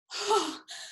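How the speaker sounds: high, soft sighed "oh"; relieved sigh. Acted. Server after finally making it, relieved sigh.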